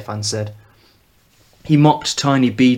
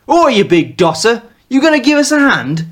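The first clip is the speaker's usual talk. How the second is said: put-on loud, higher Mancunian young man calling out; Mancunian lad; 11 semitones higher, 6 dB louder than usual. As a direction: bark it across the camp in a Mancunian accent. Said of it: "curious mix of Mancunian and the Old English".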